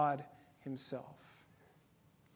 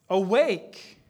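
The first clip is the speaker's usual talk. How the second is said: cry of awake; 7 dB louder than usual. Acted. Reading a psalm's cry to God.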